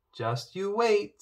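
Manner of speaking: high, slow, defiant. A narrator's reading. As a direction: dare him to doubt you. Poppy defiant at king.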